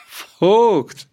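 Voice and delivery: high, loud burst of a shout; shrill outburst. A narrator's reading. Bound farmer bursts out at the bailiff, shrill and loud. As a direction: explode into a wild cry. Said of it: "dann brach er in grellendes Lachen aus".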